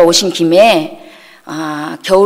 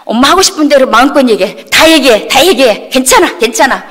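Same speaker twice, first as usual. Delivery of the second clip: higher, quick, insistent repeats; retold exasperated challenge; 5 semitones higher, 4 dB louder than usual. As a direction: re-enact daring mom to keep going. Acted quarrel, daring mother to continue.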